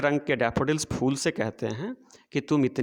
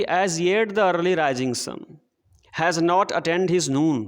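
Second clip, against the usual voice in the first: very slow, measured verse reading; poem recitation; much slower than usual. Shown as a demonstration. Teacher reading poem to children, slow recitation. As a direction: read the line out word by word for the class. Same line recited again.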